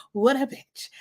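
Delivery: lightly imitated accent; a touch of a borrowed accent; David's accent. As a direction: mimic his accent on the jibe. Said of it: "in his accent".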